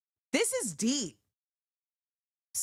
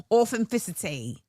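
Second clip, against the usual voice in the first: put-on British accent; 4 semitones lower than usual. Repeats word in British accent.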